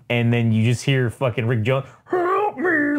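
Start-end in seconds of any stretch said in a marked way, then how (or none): 2.0-3.0 high, crying plea for help; a strangled cry of help from inside. Retold or imitated. Rick Jones cries out from face.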